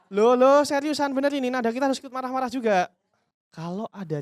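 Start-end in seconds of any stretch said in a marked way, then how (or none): 0.1-2.9 louder, higher, matching the customer's heat; matching angry tone. Shown as a demonstration. Trainer showing CS how to match an angry caller, loud and high. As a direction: rise up to the angry customer's level.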